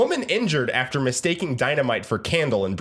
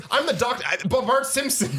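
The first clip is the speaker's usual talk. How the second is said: Bart Simpson impression; 7 semitones higher than usual. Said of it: "He's like".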